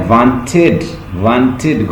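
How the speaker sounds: "وانٹڈ" in two syllables, ending in "-id"; teacher repeating "وانٹڈ" to show the "id" ending; "id" ending demo. Shown as a demonstration. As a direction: sound out "وانٹڈ" as "want-id". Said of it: "آئیڈ sound".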